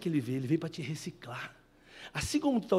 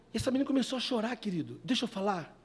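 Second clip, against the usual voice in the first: ordinary talk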